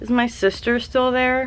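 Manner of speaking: high mock baby voice. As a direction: read it like a whiny little kid. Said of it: "In a baby voice".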